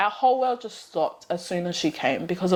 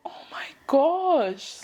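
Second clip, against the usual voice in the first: awed whisper; 5 semitones higher, much slower than usual. Real, not acted. First sight of her baby.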